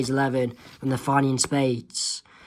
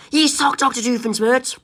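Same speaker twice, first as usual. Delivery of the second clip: voiced Lilo; 8 semitones higher than usual. Kid reading comic, voicing Lilo.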